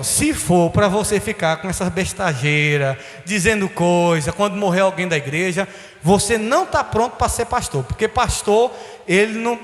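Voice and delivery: lightly voiced stern divine voice; inner voice of God. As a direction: deliver God's rebuke gravely. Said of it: "vem uma voz no meu interior".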